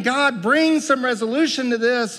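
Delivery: mild, high-pitched cry to God. Acted. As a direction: plead with God for an answer, voice lifted. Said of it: "We cry out over and over".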